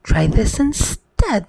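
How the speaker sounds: mild mock yell; prince's half-voiced yell back; yelled retort. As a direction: yell it back, keeping it storybook-light. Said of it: "the prince yelled back".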